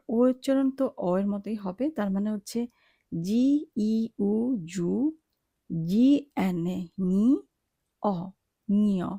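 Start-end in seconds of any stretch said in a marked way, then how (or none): 3.1-4.9 জি ই উ letter by letter, slowly, then blended into জু; slowly name জি, ই, উ, then join them as জু; spelling out জু. Shown as a demonstration. Teacher sounds out the spelling for learners, জি ই উ giving জু, slowly. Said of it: "এই তিনটি বর্ণ মিলে হবে জু". 5.9-7.3 জি এন এ named slowly, then blended into নি; spelling out নি. Shown as a demonstration. Teacher sounds out the spelling for learners, জি এন এ giving নি, slowly. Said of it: "জি এন এ এর উচ্চারণ হবে নি".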